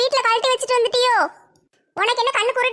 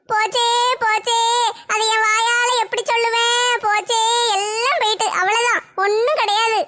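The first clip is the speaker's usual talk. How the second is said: mock wailing lament. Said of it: "ஒப்பாரி வச்சுட்டு கிடக்க".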